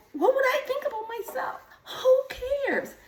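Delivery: laughing. Real, not acted. Laughing, crying, high pitch.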